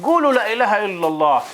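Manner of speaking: slow, drawn-out sermon delivery; pulpit preacher. Retold or imitated. Hajj imitating the Wahhabi sheikh on the pulpit, slow preaching. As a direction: proclaim it in measured phrases, with long pauses. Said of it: "الشيخ الوهابي طلع على المنبر".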